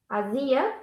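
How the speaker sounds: Ásia said with stress on "zi"; stress on second syllable. Shown as a demonstration. Teacher showing another word, "Ásia" stressed on ZI. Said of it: "means something else".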